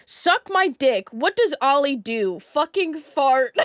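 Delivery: slow, loud mock insult; laughing loud reading of her message; retold insult. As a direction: bellow the quote for laughs. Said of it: "She said".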